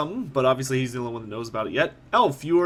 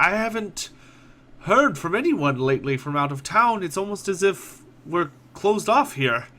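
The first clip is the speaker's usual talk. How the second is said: mild sadness; 5 semitones higher than usual. Acted. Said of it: "he sort of looks really down".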